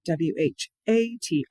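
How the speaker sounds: slow spelling, "A" punched; letters paced out with a strong, long "A"; stress on A. Shown as a demonstration. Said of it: "Some of them will still punch that A".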